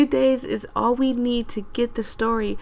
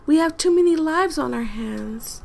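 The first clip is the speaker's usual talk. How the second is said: voicing the game lady; 2 semitones higher than usual. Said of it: "I feel like she sounds just like this".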